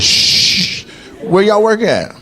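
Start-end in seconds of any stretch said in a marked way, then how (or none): 0.0-0.8 mock shush. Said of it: "He said".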